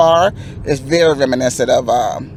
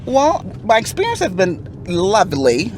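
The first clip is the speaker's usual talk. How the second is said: a light, playful put-on British accent, pitched higher; 4 semitones higher than usual. The speaker jokes for the London host in a light mock British accent. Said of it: "That's my British accent there".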